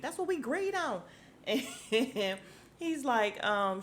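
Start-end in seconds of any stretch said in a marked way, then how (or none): 0.0-1.0 high-pitched quote with "agreed" said as 'greed; clipped agreed. Retold or imitated. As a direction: mimic her, dropping the a from "agreed". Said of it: "She said agreed".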